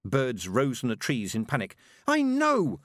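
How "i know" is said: put-on very high, louder girl's outburst; high-pitched, furious cry; screamed. A narrator's reading. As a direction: scream it back in frustration. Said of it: "screamed Tiffany".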